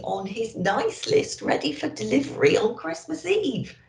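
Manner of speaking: put-on bright, bubbly elf greeting the children; chirpy Christmas elf welcome; cheery elf host. Emerald the elf greeting the children, bubbly and bright.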